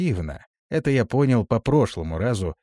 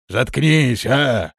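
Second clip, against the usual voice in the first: stern; 3 semitones higher, 5 dB louder, much slower than usual. A narrator's reading. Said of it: "строго произнёс хан".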